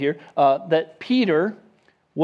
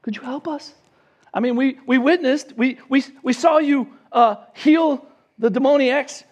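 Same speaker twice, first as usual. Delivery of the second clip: gentle, trusting request; 5 semitones higher than usual. Retold or imitated. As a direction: ask a friend for help with faith. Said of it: "they didn't wake him up and say".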